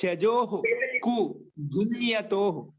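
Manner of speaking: slow recitation broken into parts; sutra recitation. Shown as a demonstration. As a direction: give the sutra piece by piece, drawn out. Repeats sutra after asking class.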